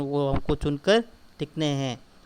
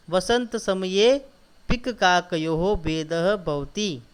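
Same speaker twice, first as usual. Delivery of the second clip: recitation; 2 semitones higher, much slower than usual. Shown as a demonstration. Teacher reciting Sanskrit sentence.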